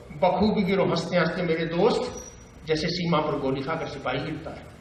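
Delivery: understated conversational verse; Bhavani Prasad Mishra. Acted. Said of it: "बातचीत की शैली".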